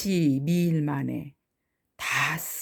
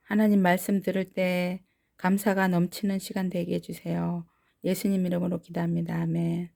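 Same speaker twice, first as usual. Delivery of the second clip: 조용하고 빠르게 기도하기; faster than usual. Acted. Leads children in prayer. (조용하고 빠른 기도)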